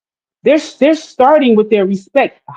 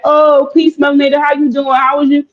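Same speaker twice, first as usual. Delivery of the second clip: higher-pitched polite hello, acted out; imitated friendly greeting; 7 semitones higher than usual. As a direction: greet her lightly and high, playing a courteous man. Acts a man's friendly greeting.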